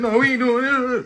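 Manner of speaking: yelling. Showing the other speaker how they should have yelled: demonstrating a yell. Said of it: "you supposed to be yelling".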